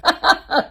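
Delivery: high, loud laugh; bright laughing burst; burst of laughter. Real, not acted. Laughing at her own joke.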